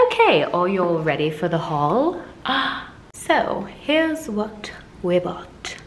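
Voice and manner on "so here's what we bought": soft breathy whisper. Real, not acted. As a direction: hush it like a secret. Hushed aside.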